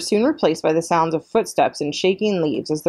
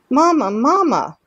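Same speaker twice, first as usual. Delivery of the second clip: much higher, louder, slow little chick voice; calling gosling; 8 semitones higher, 4 dB louder than usual. A narrator's reading. Gosling calling out to his robot mother, high and eager. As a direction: pipe it up like a baby bird.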